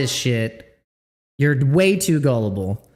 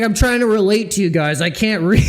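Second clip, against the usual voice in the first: mock quote, laughing; 2 semitones higher, 3 dB louder than usual. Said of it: "He's like".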